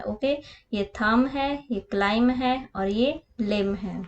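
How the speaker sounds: थम and क्लाइम with no b at the end; silent b. Shown as a demonstration. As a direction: say थम, क्लाइम, लिम, not thumb or climb. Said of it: "इसको हमने क्लाइंब नहीं read करना है".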